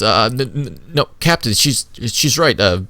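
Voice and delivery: put-on a rattled young corporal stumbling over his report; nervous corporal, tripping over words; nervous stammer. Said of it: "He looks at you a little bit nervously".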